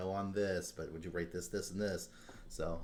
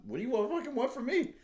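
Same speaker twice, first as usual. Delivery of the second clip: exasperated. Retold or imitated. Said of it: "I was pretty livid".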